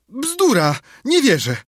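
high, loud dismissal; indignant disbelief. A narrator's reading. Aunt rejecting Sid's alarming news, indignant. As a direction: exclaim it, refusing to believe.

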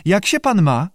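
high squawky courtesy; polite salamander. A narrator's reading. Salamander makes small talk with the director, politely squawky. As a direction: ask politely in a high creature voice. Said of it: "odparł Andrias uprzejmie".

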